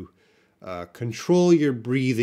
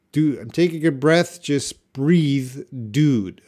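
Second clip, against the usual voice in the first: loud, laid-back bro; casual dude voice; 3 semitones higher, 5 dB louder than usual. Retold or imitated. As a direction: say it like a surfer friend. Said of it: "what was awkward about your sentence is".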